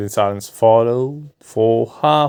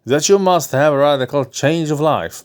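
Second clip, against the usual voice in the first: a lightly voiced doctor, a bit higher; doctor's voice; 4 semitones higher than usual. Doctor advising his nervous patient, lightly voiced.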